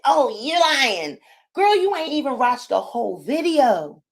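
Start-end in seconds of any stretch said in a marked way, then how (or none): 0.0-1.2 mocking commenter. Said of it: "already you're leaving a comment".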